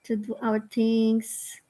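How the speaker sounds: measured invocation with long pauses; guided prayer. Real, not acted. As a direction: lead the group gently into gratitude. Leads a gratitude prayer.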